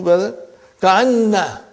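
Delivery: ordinary talk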